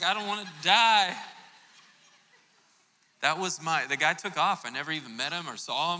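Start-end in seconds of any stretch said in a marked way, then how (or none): 0.0-1.1 loud, high mock panic; a hammed-up loud, higher plea for his life; panicked yell. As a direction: cry it out like you're really scared. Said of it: "I'm just like".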